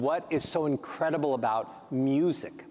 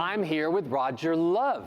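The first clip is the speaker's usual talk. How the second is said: rising tune on Love. Shown as a demonstration. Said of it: "How about".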